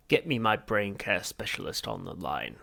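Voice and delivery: lightly voiced alien croak; a hint of a croaking alien giving orders; croaking Vogon. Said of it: "he croaked".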